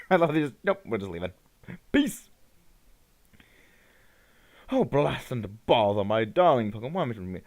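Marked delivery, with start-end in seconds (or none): 4.7-7.4 lightly put-on British professor; British accent. Professor calling to his darling Pokemon, mock British accent. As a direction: read it as a fussy British gentleman, accent on. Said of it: "I imagine he has a British accent".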